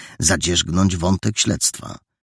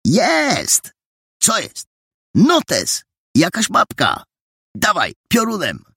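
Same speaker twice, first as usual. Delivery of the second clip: high, loud triumphant cry from under the bed; triumphant shout; 14 semitones higher, 3 dB louder, slower than usual. A narrator's reading. Boy shouts his find from under the bed, triumphant. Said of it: "wydobył się triumfalny okrzyk".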